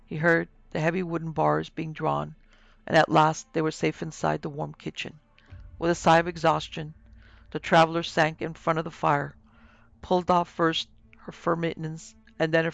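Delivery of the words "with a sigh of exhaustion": ordinary delivery, nothing marked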